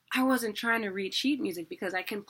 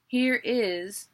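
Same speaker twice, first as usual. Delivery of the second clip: HERE IS said louder, as two distinct beats; two separate syllables; 3 semitones higher, 5 dB louder than usual. Shown as a demonstration. Teacher showing two syllables, HERE IS in distinct loud beats. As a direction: set HERE and IS apart, each clearly sounded. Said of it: "is two syllables".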